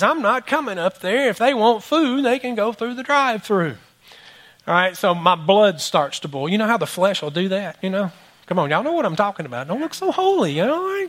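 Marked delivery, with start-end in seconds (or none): 0.0-3.8 higher, lazy refusal of a fast food worker; mock rude worker. Fast food worker refusing to come to the counter, mocked higher. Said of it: "all I hear is". 8.5-11.1 teasing. Real, not acted. Teasing congregation.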